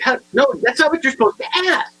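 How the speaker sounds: high-pitched mock dismay; flustered protest. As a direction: protest as if the script went wrong. Thrown by the wrong question.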